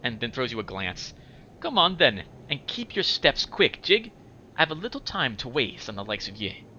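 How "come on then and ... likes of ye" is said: put-on higher, impatient, Scottish-tinged girl voice; Anna, higher pitch. Anna hurrying the corpse along, high-pitched and impatient. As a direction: pitch it up and chivvy them along. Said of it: "I'll talk in a higher pitch for her".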